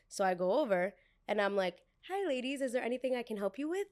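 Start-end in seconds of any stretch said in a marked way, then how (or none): 2.1-3.9 high, mock-polite server greeting; lightly put-on service voice; customer-service politeness. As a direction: chirp a polite offer of help.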